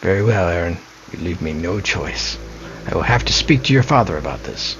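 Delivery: a hint of a stern mother, reading the lines; lightly voiced stern mother urging peace. Mother gives up on son.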